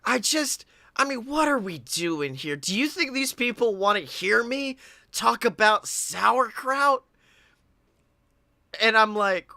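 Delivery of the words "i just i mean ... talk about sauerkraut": hammed-up drunken whine, pitch lurching upward; drunk Blake. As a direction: lightly imitate a rambling drunk friend. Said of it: "drunk Blake was just like".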